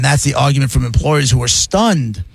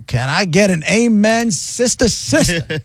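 lightly preacher-like, higher-pitched appeal; a hint of congregation-rousing, pitched up; playful amen call; 5 semitones higher, slower than usual. Co-host seeking agreement after a rant, playful amen call.

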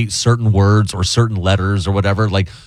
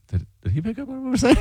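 suspicious barbers; 13 semitones higher, 6 dB quieter, faster than usual. Retold or imitated. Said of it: "and they're like".

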